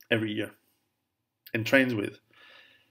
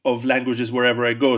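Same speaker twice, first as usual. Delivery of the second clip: normal talking voice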